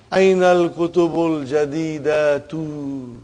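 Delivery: slow reading that leans on jadidatu; slow model read with jadidatu weighted; stress on jadidatu. Shown as a demonstration. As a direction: lean into the word jadidatu. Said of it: "I'm emphasizing jadidatu".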